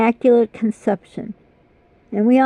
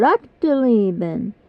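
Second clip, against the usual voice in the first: imitating uncle's German; much slower than usual. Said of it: "My Uncle Günther".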